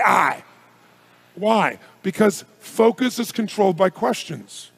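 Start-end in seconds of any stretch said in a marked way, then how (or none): 0.0-0.4 shouted reply. Shown as a demonstration. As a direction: call it out. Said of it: "Raise your hand, say".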